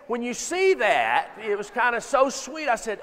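normal talking voice

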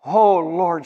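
loud pleading cry, slow; preacher acting a desperate plea; mock hollering. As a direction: call out for mercy. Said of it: "she's just this one hollering".

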